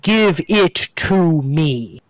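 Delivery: very slow, stretched-out mock scream; acted scream. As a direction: demand it slowly, each word dragged out. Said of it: "it just screams at you".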